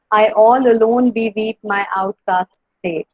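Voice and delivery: slow, measured beat on "I all alone beweep"; iambic stress. Shown as a demonstration. Teacher shows a similar example, slow iambic stress on "I all alone beweep". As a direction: stress all, -lone, -weep, out-, state, beat by beat.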